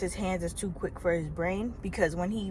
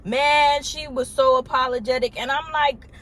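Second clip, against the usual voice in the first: normal talking voice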